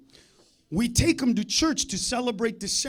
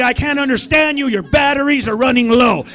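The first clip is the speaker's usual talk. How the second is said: loud mocking heckle; 7 dB louder than usual. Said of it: "I'm the only one that's gonna be".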